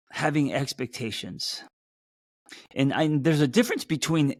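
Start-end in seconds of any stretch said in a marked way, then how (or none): 2.7-4.3 sudden upward pitch jump. Real, not acted. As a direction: pitch jumps up like Jay Leno. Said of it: "did you hear my voice just go up like Jay Leno's".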